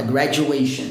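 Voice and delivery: "graduation" with "du" pronounced like J; J sound in "graduation". Shown as a demonstration. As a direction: say "graduation" as "gra-joo-ation". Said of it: "som de J".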